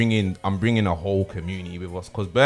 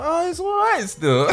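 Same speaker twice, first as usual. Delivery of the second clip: imitating a bored host; high, laughing put-down impression; mock unimpressed. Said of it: "you was like".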